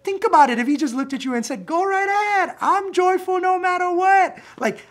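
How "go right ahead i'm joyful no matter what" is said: high, loud and fearless; defiant joy. Acted. Paul telling the guards to do their worst, exultant. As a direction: dare them, beaming.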